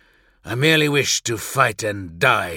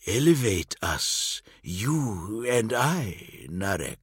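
softer, very slow voice, drawn in close; conspiratorial hush; 5 dB quieter, slower than usual. Acted. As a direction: lean in and tempt him quietly. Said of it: "His voice low enough to be mistaken for a conspiratorial whisper".

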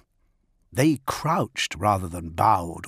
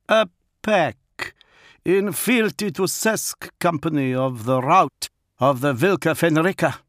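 Fafnir the wolf lord; 8 semitones higher, 4 dB louder than usual. Acted. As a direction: speak as the feral wolf lord, measured. Fafnir corrects Gilliman.

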